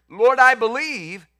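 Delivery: loud, slow, pleading cry of a desperate father; a desperate father cries out to Jesus, loud and pleading. Retold or imitated. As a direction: cry it out like a father begging through tears. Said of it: "cried out and said with tears".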